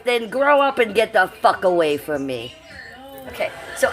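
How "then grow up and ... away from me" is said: hammed-up bossy proclaiming, higher and louder in bursts; Alexandra Mayers. Vlogger as the rival bossing the group, hammed-up impression. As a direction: play a puffed-up woman in charge, swinging to mock fury. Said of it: "this is my Alexandra Mayers impression".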